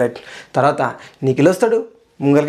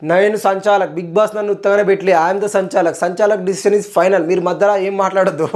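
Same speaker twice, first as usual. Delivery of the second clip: strict referee; 3 semitones higher than usual. Retold or imitated. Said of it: "very strict సంచాలక్".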